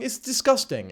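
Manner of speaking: high mocking "It's disgusting."; mock girly voice. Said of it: "talking like this".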